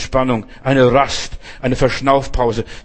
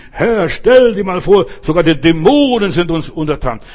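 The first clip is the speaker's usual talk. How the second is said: overwhelmed disciples; 3 semitones higher, 6 dB louder than usual. Retold or imitated. Disciples excitedly telling Jesus of their success. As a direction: gush like awed disciples back from a trip. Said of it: "beeindruckt, überwältigt".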